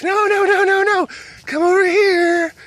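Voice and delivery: high, loud frantic call; urgent calling. Retold or imitated. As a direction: call the dogs back in a panic. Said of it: "And we're just like".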